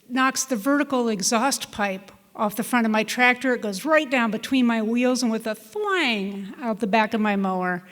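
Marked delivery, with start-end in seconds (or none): 5.6-6.5 imitated thwang. Imitates pipe flying out of mower.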